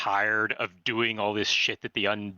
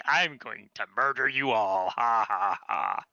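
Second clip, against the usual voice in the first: slow, drawn-out menace with a hammed-up "ha, ha, ha"; mock villain whisper; slower than usual. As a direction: imitate a villain leaning in to gloat, slowly. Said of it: "Leaning in close and whispering".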